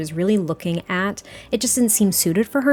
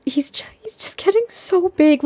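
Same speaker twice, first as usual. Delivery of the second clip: awed whisper; 10 semitones higher than usual. Real, not acted. Awed by baby growing.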